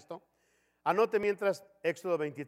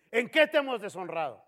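mild defiant retort; 4 semitones higher, 5 dB louder than usual. Retold or imitated. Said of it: "Otra pregunta".

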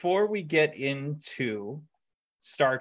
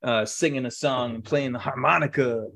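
mock egomaniac; 2 semitones higher, 4 dB louder than usual. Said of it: "he was an egomaniac who was just like".

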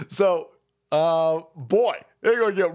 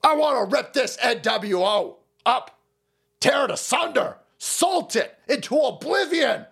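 lightly imitated conspiracy-host tirade, raised pitch; Alex Jones; 3 semitones higher than usual. Host ranting against the N W O, mock doomsday tirade. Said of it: "Something Alex Jones stuff".

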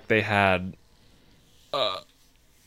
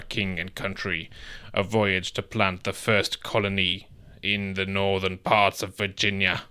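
put-on old-timey voice. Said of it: "Can you do it in, like, a old-timey voice".

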